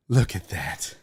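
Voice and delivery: low, soft marvelling; quietly stunned by the sight; hushed awe. Real, not acted. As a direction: say it low, under your breath. First look at the food.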